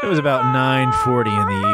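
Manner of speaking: lightly hammed noir narration; detective-novel narrator. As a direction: narrate it like a hard-boiled novel. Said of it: "as if you're narrating a detective novel".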